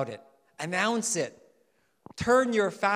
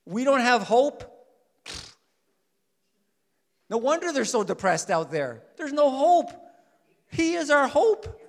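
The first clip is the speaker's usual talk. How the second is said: preaching shout; 7 semitones higher, 7 dB louder than usual. Real, not acted.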